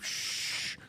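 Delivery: soft whispered shush. Pretend. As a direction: hush them off to sleep. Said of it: "I'd be like".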